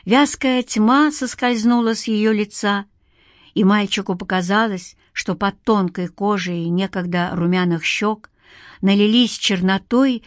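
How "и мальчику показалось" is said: ordinary delivery, nothing marked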